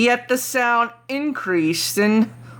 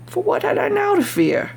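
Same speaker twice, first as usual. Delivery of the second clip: high, sing-song taunting question; much higher, smugly amused rhetorical question; mocking confidence; 12 semitones higher than usual. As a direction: toss it off as if nothing could touch you. Madman boasting of his safety.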